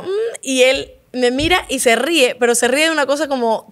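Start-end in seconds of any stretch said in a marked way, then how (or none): 0.0-2.3 retold food hum. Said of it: "pruebo el bocado y hago".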